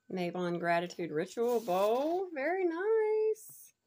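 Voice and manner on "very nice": very high, slow, drawn-out delight; delighted squeal. Real, not acted. Unboxing her box, squealing with delight.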